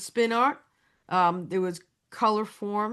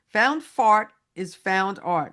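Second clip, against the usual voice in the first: slow catchphrase read; 4 dB louder, slower than usual. Acted. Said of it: "one of the catchphrases is".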